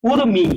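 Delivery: উর্মি with the r sounded before mi; teacher's careful model of উর্মি; reph as r. Shown as a demonstration. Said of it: "রেফের কারণে কি লিখতে হয়".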